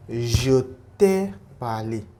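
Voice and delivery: je t'ai parlé spelled out slowly, each syllable clear; slow model phrase. Shown as a demonstration. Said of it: "we saw something there, like".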